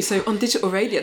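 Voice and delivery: smooth radio presenter delivery. Acted. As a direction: say it like a DJ on air. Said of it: "that was a very radio voice".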